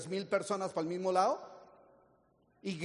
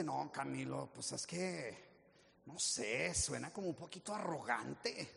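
softer, lower, hesitant; hesitant doubt; 7 semitones lower, 10 dB quieter than usual. Retold or imitated. People telling Camilo, soft and hesitant. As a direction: mumble it out unsure.

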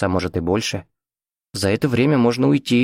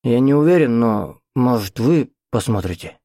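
put-on hesitant old man; 3 semitones higher than usual.

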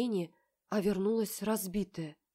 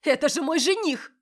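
higher, louder shrill outrage; shouting; 9 semitones higher, 8 dB louder than usual. A narrator's reading. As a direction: hurl it as an accusation. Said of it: "кричит сестра".

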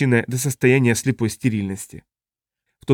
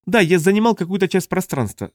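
raised-pitch alien character voice; alien Tuluk explaining; 7 semitones higher than usual. Acted. Tuluk describes his contact to colleagues, high alien voice. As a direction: explain searchingly in a higher character voice.

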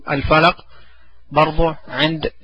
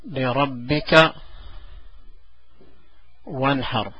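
very slow, drawn-out and softer; softer slow dictation to a child; slow soft recitation; 2 semitones lower, 9 dB quieter, much slower than usual. Shown as a demonstration. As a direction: dictate the verse word by word. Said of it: "الآية تقول".

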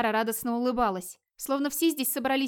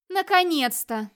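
cheerful drawn-out exclamation, high and loud; 7 semitones higher, 6 dB louder, slower than usual. A narrator's reading. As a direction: call it out gaily, stretched and ringing with relief. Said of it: "весело произнёс из тьмы молодой женский голос".

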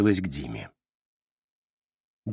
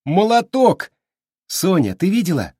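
high, loud excited praise; thrilled cheer to the cat; delighted; 8 semitones higher, 5 dB louder than usual. A narrator's reading. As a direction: burst out with glee. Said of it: "обрадовался Дима".

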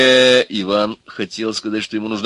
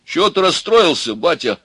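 concerned, high-pitched question; sympathetic; 9 semitones higher, 5 dB louder than usual. A narrator's reading. Ivan consoling the upset sage, sympathetic. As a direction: ask with fellow feeling. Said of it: "спросил Иван участливо".

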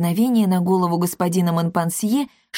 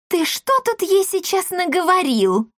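much higher scolding demand; 11 semitones higher than usual. A narrator's reading. Wife scolds her husband, high and stern. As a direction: demand an answer from him. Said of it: "хмуро взглянула на мужа".

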